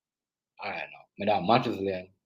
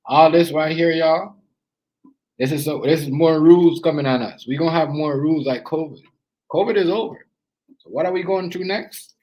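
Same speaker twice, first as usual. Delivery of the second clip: loud rant; 3 semitones higher, 6 dB louder than usual. Real, not acted. Ranting about fire season rules.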